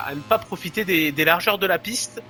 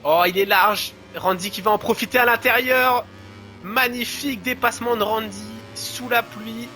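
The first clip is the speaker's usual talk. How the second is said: excited commentary; 4 semitones higher than usual. Real, not acted. Overtake in the rain.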